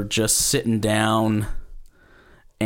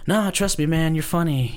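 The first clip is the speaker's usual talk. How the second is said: higher, lightly insistent reassurance; reassuring friend; 6 semitones higher than usual. Retold or imitated. Friend to the comic thinking of quitting, reassuring. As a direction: imitate a buddy waving away doubts.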